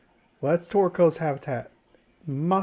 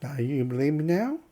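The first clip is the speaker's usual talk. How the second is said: put-on southern accent. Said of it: "giving him a southern accent".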